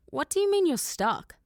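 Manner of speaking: high, startled disbelief; confused and thrown, pitch up; puzzled girl demanding an answer; baffled. Acted. Sarah's baffled question.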